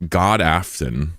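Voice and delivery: God Afton read slowly with a rise; careful Swedish try. Shown as a demonstration. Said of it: "He's gonna look a fool".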